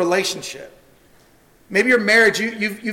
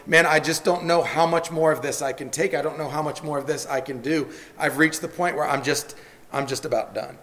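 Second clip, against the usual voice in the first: softer and lower, sinking toward done; weary, fading quote; 4 semitones lower, 5 dB quieter than usual. Retold or imitated. Worn-out churchgoer admitting he can't take more, drained and fading. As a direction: let it drain out of you, spent. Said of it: "and you go".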